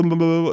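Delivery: mock taunting noise. Gloating at the scolded attorney, mock taunting babble. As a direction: babble a childish nyah-nyah at him. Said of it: "that kinda thing".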